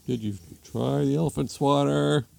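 husband asking. Acted. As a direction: ask it in a mild cartoon husband voice. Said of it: "Husband comes downstairs".

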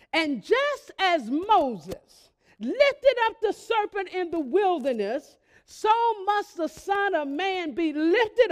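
slow, solemn reading of scripture. Acted. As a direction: read it out slowly like holy writ. Quoting Jesus, slow scripture reading.

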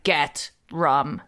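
lightly voiced mysterious command, drawn-out GET; low, slow voice in the head saying "Get rum"; commanding inner voice. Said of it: "it was like a voice was being like".

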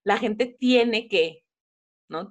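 normal talking voice

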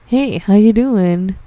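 slow, drawn-out mock greeting; creepy regular's greeting. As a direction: imitate an overfamiliar regular dragging out hello.

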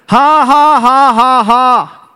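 big, high, measured ha-ha-ha; deliberate preacher's laugh. Shown as a demonstration. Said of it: "Why are you laughing?".

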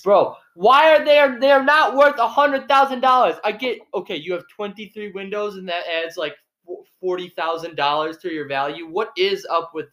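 high, loud indignant outburst; outraged. Real, not acted. Outraged at van prices.

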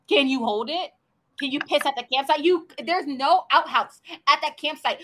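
loud, indignant mock rant; mocking complaint. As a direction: rant at him, exasperated and loud. Mocking Wade's complaints about peeing.

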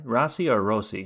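"Rossi" first with an AH vowel, then with an OH; two pronunciations of Rossi. Shown as a demonstration. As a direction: contrast "Rossi" as RAH-see, then ROH-see. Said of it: "How do you say it?".

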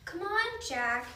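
hurrying call, voice lifted; urgent shout. A narrator's reading. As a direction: shout for someone to keep up. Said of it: "Annie shouted".

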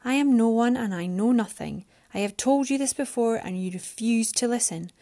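frustrated Mariana. Acted. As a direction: argue back, pitch up.

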